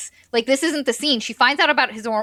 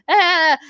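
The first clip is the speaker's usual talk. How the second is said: mock grudging "ah"; 6 semitones higher, 6 dB louder than usual. Retold wordless reply to an apology.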